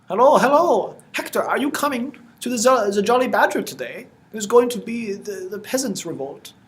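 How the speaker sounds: high, loud rabble-rousing villager, easing towards the end; eager peasant customer. Acted. Customer urges Hector to the peasants' revolt, eager and high.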